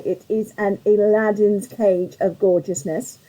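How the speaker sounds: normal talking voice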